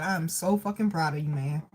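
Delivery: low, quiet, sincere repetition; heartfelt relayed pride. Retold or imitated. Medium repeating exactly what daddy said, heartfelt. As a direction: repeat the father's pride softly and earnestly. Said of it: "That's exactly what he said".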